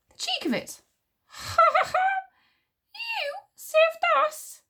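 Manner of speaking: high, loud scornful disbelief; outraged. A narrator's reading. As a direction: exclaim indignantly, with a mocking laugh. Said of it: "exclaimed Wish in outrage".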